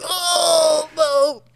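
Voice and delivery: high, loud mock wail; hammed-up cry of pain. Volok kicked in the testicles, hammed-up high wail. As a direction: yelp like a kicked wrestler. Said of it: "and he goes".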